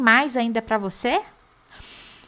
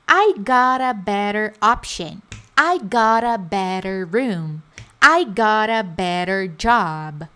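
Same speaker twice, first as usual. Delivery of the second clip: slow drill; 4 dB louder, slower than usual. Shown as a demonstration. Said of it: "teacher drills model sentences".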